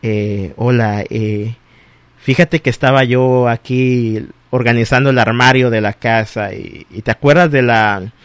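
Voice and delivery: low, halting phone-call opener; hesitant, low-key ex calling at dawn. Acted. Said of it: "te llaman a las cinco de la mañana y diciendo".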